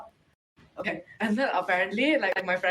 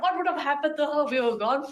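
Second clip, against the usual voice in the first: mock yelling; 5 semitones higher than usual. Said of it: "we were yelling so loudly".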